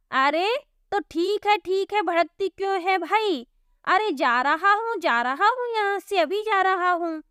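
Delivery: a lightly voiced milkman retreating, flustered; backing off. Milkman Gabru retreats from angry Divya, flustered. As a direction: back away placating her.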